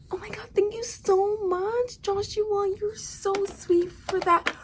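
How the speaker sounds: high breathy whispered gratitude, slow at the end; fake sweet whisper. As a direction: purr false thanks before the betrayal. Levana fake-thanking the killer.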